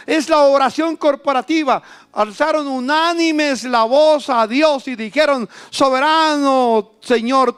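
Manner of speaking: high, loud fervent preaching; preaching at full force. Acted. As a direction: proclaim unity to the congregation. Preaching climax. (predicación a toda voz)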